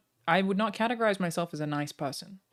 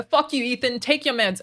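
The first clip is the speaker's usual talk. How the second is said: mock insult; 6 semitones higher, 6 dB louder than usual. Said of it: "You can call me a cunt".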